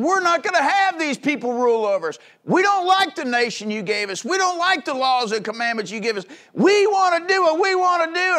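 a sneering rebel chant that swells to a cry; mock rebellious shout. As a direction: mimic the defiant crowd, rising to a yell. Mock quote of rebellious people.

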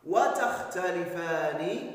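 وتختلفان said slowly, each syllable spelled out; slow stressed conclusion. Shown as a demonstration. Teacher to pupils, stating the rule slowly. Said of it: "teacher stresses conclusion".

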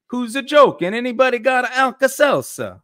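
very high, loud cartoon Italian complaint; Guido, stereotyped Italian accent. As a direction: wail in a hammed-up Italian accent. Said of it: "I'm just gonna do stereotypes".

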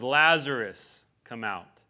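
understated heartfelt summons; heartfelt call. Retold or imitated. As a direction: call him out slowly, then let it sink. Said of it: "crying, like weeping, heartfelt voice".

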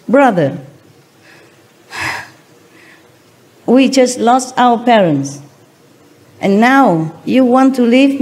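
choked-up plea. Acted. New king begs his brother not to leave, mildly choked-up. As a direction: plead haltingly, lightly acting choked up. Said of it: "replied in a choking voice".

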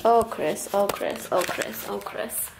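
fading tsk-tsk chant; mock disapproval. Real, not acted. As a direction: scold fondly, fading each time. Mock scolding at Chris' desk.

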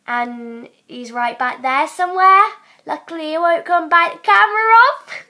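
put-on Australian of uncertain origin; amateur Australian accent. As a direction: chat as a make-believe Australian. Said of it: "Okay, I'm doing Australian".

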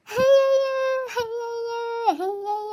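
hammed-up sobbing cries of grief; mock wailing. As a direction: wail it like a staged mourner. Neighbour wails at a death.

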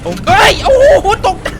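loud, high jump scare yelp; ตกใจสุดขีด; startled. Real, not acted. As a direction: caught off guard and yelling.

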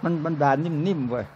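soft words breaking into a laugh; laughing punchline. Real, not acted. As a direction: laugh it out quietly. Joking punchline about the wife.

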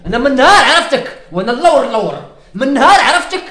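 hammed-up loud blame; mock angry scolding. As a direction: scold her for holding you back.

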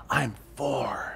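put-on hushed little kid whisper; a child whispering into the phone; small child whispering. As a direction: whisper like a scared four-year-old. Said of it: "the whispering voice says".

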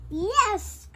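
high loud Yes; cried out. Acted. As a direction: call out yes gladly. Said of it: "cried the witch".

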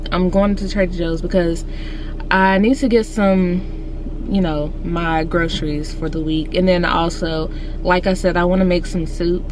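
slushy sh for s; lisping through a retainer. Real, not acted. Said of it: "I can't take myself serious".

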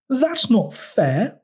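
high, drawn-out mock bawl; bawling protest. A narrator's reading. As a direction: protest in a slow, high whine. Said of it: "bawled Toad".

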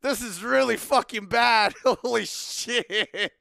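half-laughing exclamations, slowed at the start; cracking up while complaining; laughing in disbelief; laughing through it. Retold or imitated. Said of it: "and I just started laughing".

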